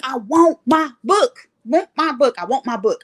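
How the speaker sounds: mock whining, insistent repetition; retold tearful frustration. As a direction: plead like someone frustrated to tears. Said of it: "I'm crying. I'm frustrated".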